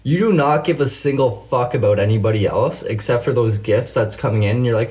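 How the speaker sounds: indignant, emphatic rant; worked-up call-out. Real, not acted. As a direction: press the accusation home. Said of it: "I'm gonna rant here for a second".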